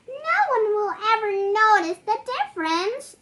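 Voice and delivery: high, loud, fast eager agreement; excited fairy. Acted. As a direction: chirp it out quickly. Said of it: "agreed the fairy".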